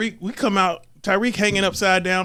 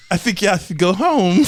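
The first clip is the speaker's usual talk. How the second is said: put-on Mister Turner accent; 4 dB louder than usual. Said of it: "The acc-, the accent is on point".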